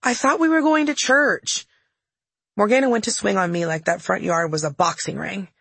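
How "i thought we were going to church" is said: put-on high, drawn-out kid-sister protest; baby sister piping up. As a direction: pipe up plaintively as the little sister. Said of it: "My poor baby sister Abigail piped up".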